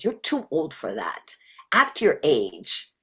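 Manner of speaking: low, weary scolding elder; old tired inner voice. Acted. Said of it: "that old and tired voice".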